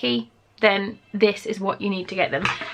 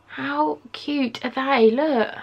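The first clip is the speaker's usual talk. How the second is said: cooing; 4 semitones higher, much slower than usual. Real, not acted. Cooing over tiny earrings.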